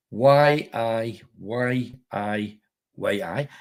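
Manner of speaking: slow, drawn-out Geordie "Y I Y I Y I"; Geordie eye test. Acted. Joking host spells the Geordie eye test in Geordie. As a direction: spell out "Y I Y I Y I" slowly, Geordie style. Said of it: "was it the Geordie eye test".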